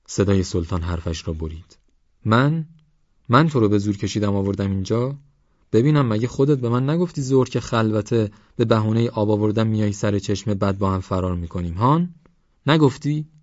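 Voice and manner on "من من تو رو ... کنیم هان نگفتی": sharp, raised indignant retort; indignant young man. Acted. Young man confronts the girl, indignant and raised. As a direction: throw her words back at her.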